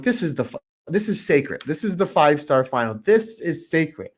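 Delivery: indignantly defending something sacred; retold indignant insistence. Retells own outrage at match interference.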